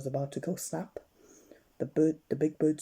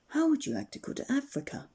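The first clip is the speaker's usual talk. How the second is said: higher called-out question; shouted over wind; 12 semitones higher than usual. Acted. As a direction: call it across the rushing air. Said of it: "he shouted".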